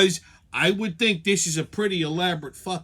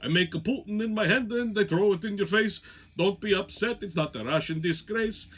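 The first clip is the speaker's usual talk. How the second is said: a lightly voiced Putin reciting a mock rhyme; half-hearted impression of Putin taunting in verse; hint of a Russian leader gloating; 2 semitones higher than usual. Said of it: "He probably says it all the time".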